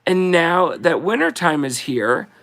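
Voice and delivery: slow, sing-song verse reading; slow Christmas card recital; poem reading. Acted. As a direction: read it like a greeting card poem, unhurried. Reads Christmas poem aloud.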